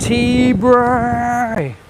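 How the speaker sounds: loud high call across the room. Real, not acted. Calling out to a viewer.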